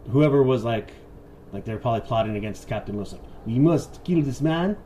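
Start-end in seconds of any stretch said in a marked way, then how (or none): 3.5-4.8 mock French accent. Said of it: "that's another French accent".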